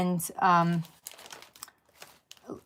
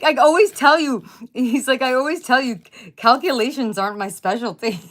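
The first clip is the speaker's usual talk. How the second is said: mimicking husband; 4 semitones higher, 4 dB louder than usual.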